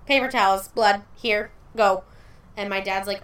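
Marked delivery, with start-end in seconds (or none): 0.0-2.0 put-on hurried, loud teen clerk; panicky teen clerk. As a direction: blurt it out like a flustered cashier. Teen worker panicking at counter.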